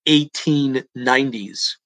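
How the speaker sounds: slow, deliberate, stress on eighteen; slow emphatic repeat. Shown as a demonstration. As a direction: spell it out slowly for emphasis. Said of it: "let me repeat that".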